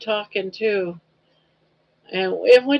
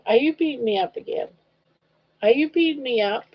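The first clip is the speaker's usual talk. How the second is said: put-on higher, quick teasing baby talk to a pet; mock scolding the dog; 5 semitones higher, faster than usual. Owner teasing her dog for beating her up, higher and quick. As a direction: playfully accuse the dog of a beating.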